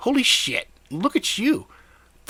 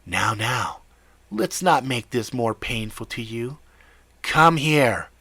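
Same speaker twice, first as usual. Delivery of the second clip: nasal villain voice. Acted. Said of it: "nasal, whiny voice".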